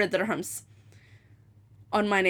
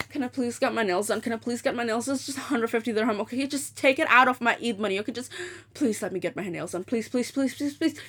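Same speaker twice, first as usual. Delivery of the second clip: begging; 4 dB quieter than usual. Retold or imitated. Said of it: "I had to go and beg my mom".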